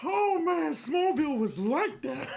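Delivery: high, laughing disbelief; real laughter. Real, not acted. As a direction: crack up through the words, stretching them out. Cracking up over Smallville memories.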